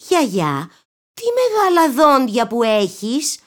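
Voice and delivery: a touch of fear as she asks; mild scared quaver; trembling voice. A narrator's reading. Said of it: "είπε με τρεμάμενη φωνή".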